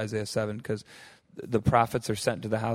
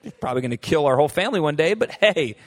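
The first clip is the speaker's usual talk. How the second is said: breezy and naive; 3 semitones higher, 4 dB louder than usual. Retold or imitated. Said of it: "He's like".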